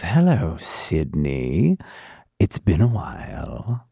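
leaning in close, slow and menacing; a killer greeting his old prey up close. Acted. Killer to his final girl, slow menacing greeting. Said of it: "leans in very closely and goes".

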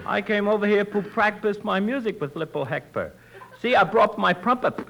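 "pruppet" for trumpet, T as P. Acted. Tommy showing Costello his trumpet, T as P. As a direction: swap each T for a P. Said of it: "He can't say the letter T".

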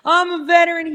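retold guy demanding to be let in, mock shout; imitating a pushy man. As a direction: play the insistent veteran at the desk, half-shouting. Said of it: "He started saying".

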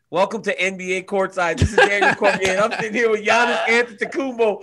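lightly voiced courtside broadcaster intro; mock TV host. Teasing his cohost, he imitates a TV host welcoming the audience. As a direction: play a sports show host welcoming viewers. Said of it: "it'll be like".

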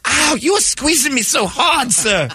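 high squeaky pained victim; being squeezed hard. Acted.

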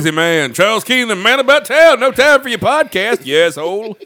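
loud, high mock praise; sarcastic mockery. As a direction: tease him, voice up high. Mocking co-host's busy life.

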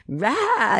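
high, drawn-out playful "rah"; mock roar of heated passion; passionate "rah". Shown as a demonstration. Wife showing how she and her husband argue, passionate mock roar. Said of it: "we're both very passionate".

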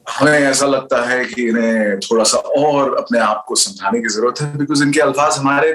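fast, mock-formal Urdu delivery; stately Urdu, played for laughs; formal Urdu speech. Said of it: "just do it in a different language, Urdu, maybe".

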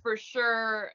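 a light touch of Minnesota accent. Shown as a demonstration. Actor recalling her friendly, disarming accent, lightly done Minnesota. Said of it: "a Minnesota accent for the first".

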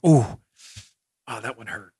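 lightly voiced hurt reporter, half-joking; mock wounded groan. Host voicing the reporter after the rib shot, mock pained. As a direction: ham up a hit to the ribs. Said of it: "Paula Reed left that interaction going".

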